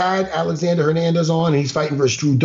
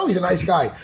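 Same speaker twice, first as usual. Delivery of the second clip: dismissive cliché; faster than usual. Retold or imitated. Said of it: "that word gets used a lot".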